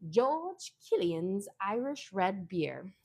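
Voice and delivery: slow, drawn-out mock-uppity reading; lightly affected, uppity brand name; uppity flourish. Real, not acted. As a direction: say the beer's name slowly with a touch of put-on grandeur. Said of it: "supposed to be an Irish accent".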